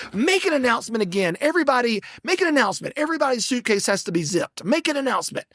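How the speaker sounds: mocking the bossy agent. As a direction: lightly imitate her demanding an announcement. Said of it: "she was like".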